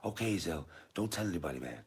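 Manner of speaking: lightly voiced film character; Smokey. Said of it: "And Smokey's like".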